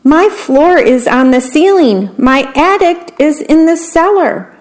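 rising high dismay; dizzy wail. A narrator's reading. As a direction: worm spun round and round. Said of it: "cried the worm".

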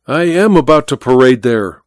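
a light mock of Godal's accent, stress on am; mimicking Godal's accent. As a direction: echo Godal's accent, gently teasing. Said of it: "imitating the accent of the other".

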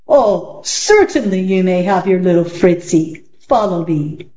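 a lightly voiced magician, smooth and sly. Magician to Alan, lightly voiced and sly. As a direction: play the magician offering the dog back.

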